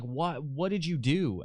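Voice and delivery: high, accusing panicked question; frantic mom. Retold or imitated. Mother blaming her son over the phone, high panicked accusation. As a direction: mimic mom demanding answers. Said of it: "she's freaking out".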